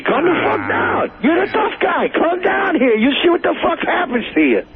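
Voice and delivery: ordinary talk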